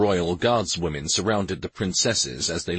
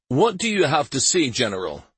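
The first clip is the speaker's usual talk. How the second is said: white-knuckle calm; 6 semitones higher, 3 dB louder than usual. Acted. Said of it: "in a tightly controlled tone".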